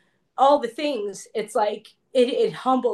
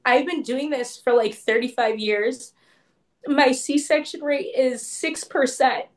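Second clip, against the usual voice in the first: slow, higher, earnest retelling; super serious; 4 semitones higher, slower than usual. Retold or imitated. Midwife sitting down with the new mother, super serious. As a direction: imitate grave sincerity, spacing out the words. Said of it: "she was super serious".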